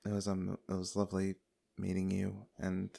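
soft, hesitant pleasantry, tailing away; awkward quiet goodbye. Acted. Rhiannon leaving the two of them, soft awkward goodbye. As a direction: say a polite farewell very softly, wanting out.

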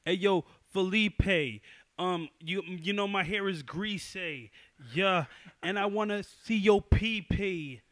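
slow, drawn-out mock rap voice; slow goofy rapper bit. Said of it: "I could be like".

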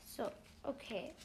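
whispered focus; whispering. Real, not acted. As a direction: breathe the words out. Concentrating whisper.

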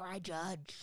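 mock-stern "I judge", voiced in full; judgmental. Retelling a rebuke to the finger-snapping producer, judgmental. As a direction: deliver a voiced, judging declaration.

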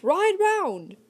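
high, loud call; yelled order. A narrator's reading. Narrator shouting to Kit to ride round. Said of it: "I yelled to Kit".

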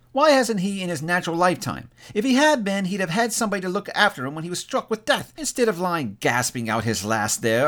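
high-pitched, scornful woman's voice; indignant woman. Acted. Woman blames the dead man for dying alone, indignant.

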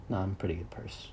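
whispered aside. Real, not acted. Sheepishly correcting himself, in a whisper. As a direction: let it slip out as a secret whisper.

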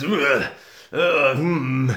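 mock pensive grunt, then a hum; hammy acting groan. The speaker puts on his acting face, hammy groan. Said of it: "Jack Stewart's acting face".

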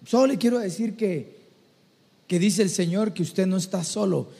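pluck up courage, pausing before the message; hesitant message. Acted. Nervous believer passing God's word to a stranger, halting.

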